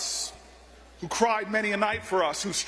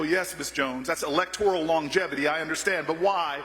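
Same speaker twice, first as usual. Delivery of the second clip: much lower, dry and deferential; low, patient insistence; 6 semitones lower than usual. Retold or imitated. Young Booker dryly praising her longevity, then pressing, low and patient. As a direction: keep your voice low and courteous while you press.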